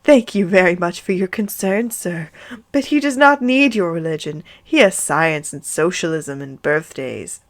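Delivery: mild mock sweetness; sickly sweet. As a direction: thank them with syrupy politeness. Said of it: "her voice was sickly sweet".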